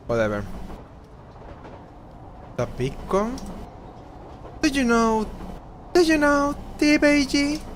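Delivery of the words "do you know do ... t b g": raised character voice. Acted. Voicing a game character.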